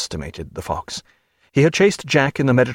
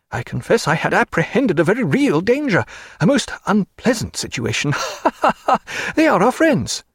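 a higher, fluttering clergyman's voice; nervous parson; 8 semitones higher than usual. Acted. Chaplain frets to Stephen about the ships, high and fluttering. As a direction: play the timid chaplain, fussing.

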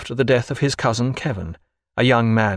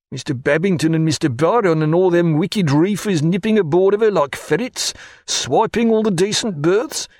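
grumbling steward Killick; 7 semitones higher than usual. Acted. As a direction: huff and fret over lost berths. Killick grumbling while packing.

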